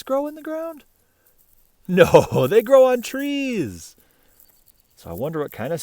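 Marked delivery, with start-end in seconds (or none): 1.9-4.0 louder, higher, slow words through a laugh. Real, not acted. Laughing to the children at a silly idea. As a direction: giggle out the answer.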